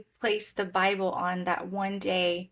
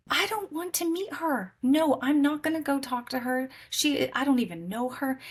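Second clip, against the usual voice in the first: shrill refusal, pitched up; high protest; 6 semitones higher than usual. Retold or imitated.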